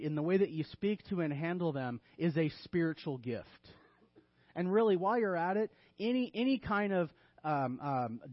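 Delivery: deadpan mock-earnest counsel; dry sarcastic teaching; tongue-in-cheek. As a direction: recommend the outrageous as if it were wise. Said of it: "Tongue in cheek here".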